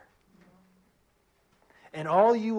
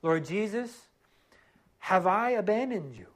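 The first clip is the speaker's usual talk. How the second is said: model prayer; 3 semitones higher than usual. Pretend. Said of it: "go before him and say".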